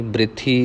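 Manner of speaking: ਬ੍ਰਿਥੀ as bri-thee, no vowel between b and r; i after the r. Shown as a demonstration. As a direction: put the short i on the r of ਬ੍ਰਿਥੀ. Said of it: "ਰਾਰੇ ਨੂੰ ਸਿਹਾਰੀ ਲੱਗੇਗੀ". (ਬ੍ਰਿਥੀ ਵਿੱਚ ਰਾਰੇ ਨੂੰ ਸਿਹਾਰੀ)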